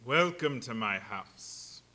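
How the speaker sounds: drawn-out menacing welcome; slow low whisper-like. Acted. Dracula greets dreaming Harker.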